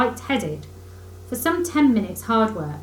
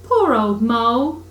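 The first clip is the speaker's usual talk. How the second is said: kindly; 2 semitones higher, 7 dB louder, slower than usual. A narrator's reading. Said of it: "said the rat kindly".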